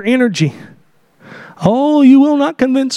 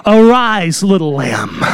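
tender endearment; 4 semitones lower, slower than usual. Acted. Preacher voicing Jesus, tender and low. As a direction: say "Arise, little lamb" like a father waking his girl. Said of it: "a term of endearment used of a father talking to the daughter".

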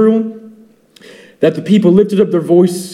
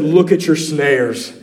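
grave warning from God; 4 semitones lower, slower than usual. Retold or imitated. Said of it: "God saw the bigger picture and said".

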